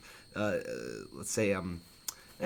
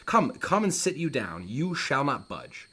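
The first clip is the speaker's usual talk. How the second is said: higher-pitched, mildly heated Hamlet; angry at mom; 4 semitones higher, slower than usual. Acted. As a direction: order your mother to stay put. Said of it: "He's really mad at his mom".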